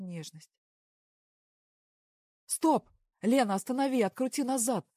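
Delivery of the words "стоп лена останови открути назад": loud, high urgent shout; alarmed shouting that grabs attention; sudden shout. A narrator's reading. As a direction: yell at her to stop the video now. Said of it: "вдруг закричал Костя".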